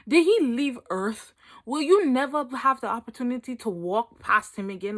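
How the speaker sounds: loud, emphatic disbelieving questions; mock incredulous. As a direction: grill them in exaggerated disbelief. Mock disbelief at crying over boys.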